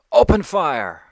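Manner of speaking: high, loud command to fire; shouted order. Acted. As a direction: bark the order across the field. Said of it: "he gives the signal".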